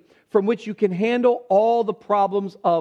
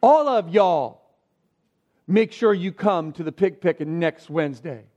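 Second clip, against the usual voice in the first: Southern folks inviting; 3 semitones lower than usual. Retold or imitated. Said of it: "They say".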